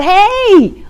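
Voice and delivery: high, loud warning call; screaming out. Retold or imitated. Boater calling to the oncoming boat, high loud shout. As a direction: shout across the water to get noticed. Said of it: "So he screams out".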